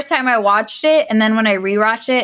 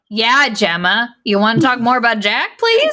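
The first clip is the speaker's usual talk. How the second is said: mocking. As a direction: drag it out sarcastically. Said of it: "And then Haley's like".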